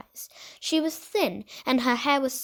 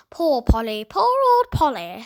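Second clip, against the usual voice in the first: parrot voice; 8 dB louder than usual. A narrator's reading. Parrot speaking.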